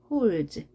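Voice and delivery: "holds" ending in one voiced dz; fuse d and s into a buzzed sound in "holds"; merged dz ending. Shown as a demonstration. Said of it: "디에스가 합쳐져서 z". ("holds" 끝을 즈로 합쳐서 발음)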